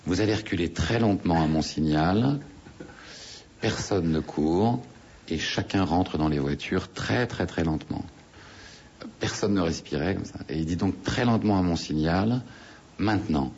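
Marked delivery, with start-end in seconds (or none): 0.1-8.0 voix posée du guide. Retold or imitated. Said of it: "avec une voix très posée". 11.0-13.5 composed, measured command, pausing before the last word; voix posée du guide. Retold or imitated. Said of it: "avec une voix très posée".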